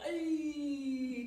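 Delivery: a hint of a Greaser's tough "Ay"; lightly voiced T-bird sound. Shown as a demonstration. Teacher showing the student a T-bird "Ay". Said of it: "So I like to pretend I'm a T-bird".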